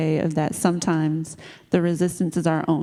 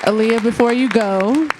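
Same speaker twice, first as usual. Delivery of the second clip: raised voice, high and loud, calling her back; 4 semitones higher, 4 dB louder than usual. Real, not acted. Host calling Aaliyah back before she leaves the mic, loud call.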